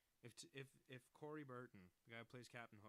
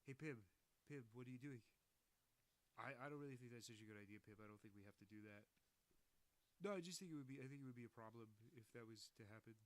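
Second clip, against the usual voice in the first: imitating a friend's distinctive cartoon-actor voice; Zach Hadel. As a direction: attempt an odd, funny character voice, not quite landing it. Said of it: "like, that perverted thing".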